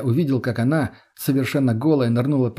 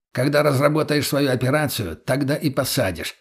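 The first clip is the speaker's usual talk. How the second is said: curt retort; 2 semitones higher than usual. Acted. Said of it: "отрезал Михалыч".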